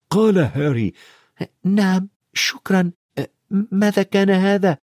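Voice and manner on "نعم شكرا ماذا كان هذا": put-on higher, boyish voice for Harry; boy asking shakily; young Harry. A narrator's reading. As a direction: lift the voice into a startled boy. Harry voiced high by narrator.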